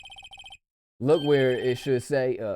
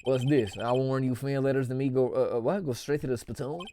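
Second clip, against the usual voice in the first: put-on southern accent. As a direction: read it with a light southern accent. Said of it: "In a southern accent, please".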